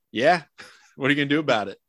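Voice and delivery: fast, laughing taunt. Retold or imitated. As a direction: toss it off with a laugh. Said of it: "He should have said straight up".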